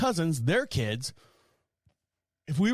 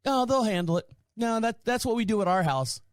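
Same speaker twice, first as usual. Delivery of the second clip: higher, lightly mocking carefree voice; mock dismissive aunt; 6 semitones higher than usual. Mimicking the aunt brushing off the mess, airy mock tone. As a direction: shrug it off as no big deal. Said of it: "like it was nothing".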